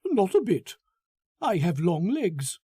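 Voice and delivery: a gushing, smug man showing off his prize; the narrator voices Foster pleased with himself; Foster, eager and pleased. Acted.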